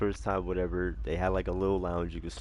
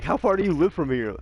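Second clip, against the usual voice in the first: higher, louder worried dealer; urgent question; 8 semitones higher, 7 dB louder than usual. Retold or imitated. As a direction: ask it loud and alarmed. Retold dealer questioning buyer.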